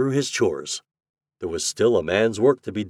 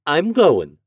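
loud, raised, firm declaration; decisive cry; 7 semitones higher, 8 dB louder than usual. A narrator's reading. Mother overruling her boy, decisive. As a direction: announce it and allow no argument. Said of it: "cried Missus Tidd decisively".

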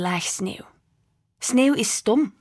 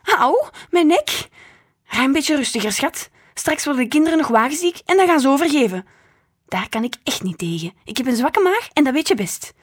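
put-on loud, higher, fussy old woman; whining grandma; 5 semitones higher, 6 dB louder than usual. A narrator's reading. Grandma scolding mother for braking hard, loud and fussy. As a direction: moan about her neck and stomach.

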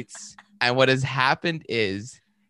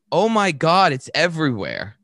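imitating his sudden scream, loud on the first words; a retold shriek, half-hammed; mock shriek; 4 semitones higher, 6 dB louder than usual. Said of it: "he screams, like, shrieks".

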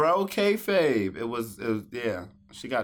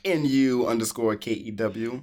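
spelled out with a cool rise; trying to sound cool. Acted. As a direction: play it cool while spelling. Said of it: "you try to be cool".

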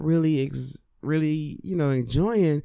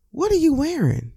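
higher, louder snooty question; mock rude date; 10 semitones higher, 4 dB louder than usual. Date mocking the other's outfit, in a higher snooty voice. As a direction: play the judgy date sneering at the outfit.

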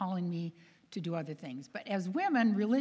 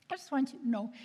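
higher, mildly tearful imitation; tearful caller; 5 semitones higher than usual. Crying girl calls to thank the author, mildly tearful. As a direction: imitate a girl holding back tears on the phone. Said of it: "And she's crying".

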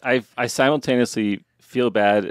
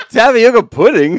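loud, high, drawn-out incredulous question; hammed-up, high-pitched bewilderment; mock disbelief; 13 semitones higher, 12 dB louder than usual. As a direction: repeat it slowly as if utterly baffled. Mock disbelief at co-host's British word.

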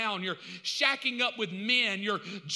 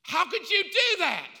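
higher, louder aghast cry; shocked accuser; 9 semitones higher, 7 dB louder than usual. Acted. The accuser reacts to Jesus, loud and aghast. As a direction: gasp it out in disbelief.

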